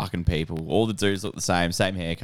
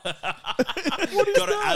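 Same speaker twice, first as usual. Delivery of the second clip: high, slow words through laughter; barely getting words out for laughing; laughing hard; 3 dB louder, slower than usual. Real, not acted. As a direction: talk while cracking up. Laughing at Do the Raw.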